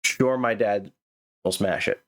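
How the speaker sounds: flat mock robot read; run-on robot reading. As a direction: mimic the voice running it together with no pause after sure. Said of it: "so you see the way the voice said".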